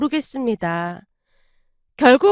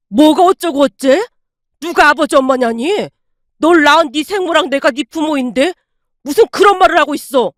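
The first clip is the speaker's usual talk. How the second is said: furious rant; 5 dB louder than usual. Acted. Father raging at son on phone.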